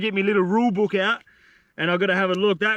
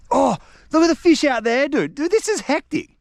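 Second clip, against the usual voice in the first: excited; 7 semitones higher, 3 dB louder than usual. Real, not acted. Sees fish jumping everywhere.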